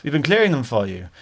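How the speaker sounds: mildly mimicked Indian-accented seller. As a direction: reassure in a light mock Indian accent. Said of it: "he definitely had an Indian accent".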